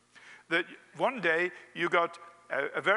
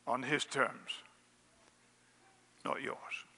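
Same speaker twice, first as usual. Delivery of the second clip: reverent whisper; 4 semitones lower, 8 dB quieter, slower than usual. Acted. Preacher applying the Queen's words to Jesus, whispered. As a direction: drop to a bare whisper.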